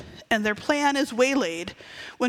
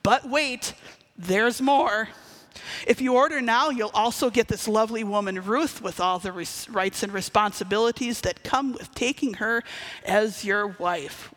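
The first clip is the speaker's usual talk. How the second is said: Billy Mays impression. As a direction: sell it like a TV pitchman. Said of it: "does his best Billy Mays informational, infomercial pitchman impression".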